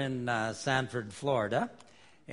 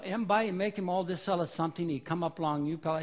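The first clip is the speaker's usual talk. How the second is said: Pidgin read aloud, higher and lively; Melanesian Pidgin; 5 semitones higher, 3 dB louder than usual. Shown as a demonstration. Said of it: "in Melanesian Pidgin".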